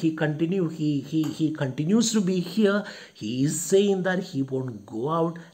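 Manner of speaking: mildly angry, quick grumbling; angry servant. Acted. Luca grumbling to himself about the visitor, angry. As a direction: rattle off an exasperated complaint. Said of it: "Luca angry".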